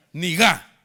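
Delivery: "Niga" called out loud, falling. Shown as a demonstration. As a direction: shout "Niga" with the congregation. ("Niga" dicho fuerte, con tono descendente)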